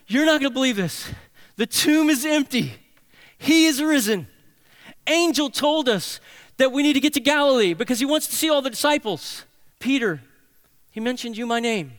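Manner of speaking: high, loud, tumbling out the news; breathless excited women. Retold or imitated. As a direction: burst in with news you can't hold in. Women breathlessly tell Peter the news.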